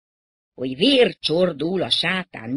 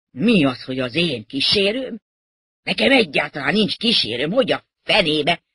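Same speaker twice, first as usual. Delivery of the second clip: loud, annoyed denial; indignant protest; 4 dB louder than usual. Acted. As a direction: protest as if affronted by the very idea. Villa Lobosz denies having an escort.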